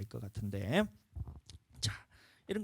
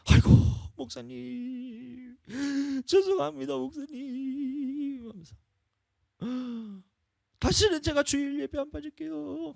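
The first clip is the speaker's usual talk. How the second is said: pleading apology; 5 dB louder, slower than usual. Retold or imitated. Deacon apologising, retold.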